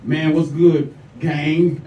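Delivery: a hint of forced straight-dude greeting; straight-guy act. Replying to a man's text, lightly acting straight. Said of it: "put all the straight words together".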